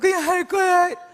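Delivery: loud, very high-pitched, tearful sobbing voice. Retelling the daughter's reply after being scolded: imitating crying while talking. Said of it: "막 울면서".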